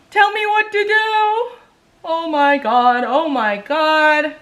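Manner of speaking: high, loud, drawn-out plea; exasperated wail. Real, not acted. Begging viewers for a makeup fix, exasperated wail. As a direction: wail it slowly in despair.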